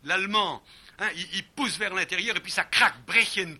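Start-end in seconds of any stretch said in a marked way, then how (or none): 3.0-3.6 "brechen" louder with a cracking ch; German "brechen" cracked out. Shown as a demonstration. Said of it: "comme nous disait Nietzsche".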